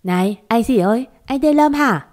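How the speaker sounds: mild annoyed call, pitch jumping up on the last line; irritated snap. Acted. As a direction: snap at him, fed up. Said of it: "Tôi bực mình quát cậu ấy". (cô gái bực mình quát người lạ, giọng cao gắt)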